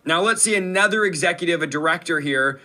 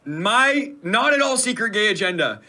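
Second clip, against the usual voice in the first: mocking repeat; 5 semitones higher, slower than usual. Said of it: "I love how fast she says it".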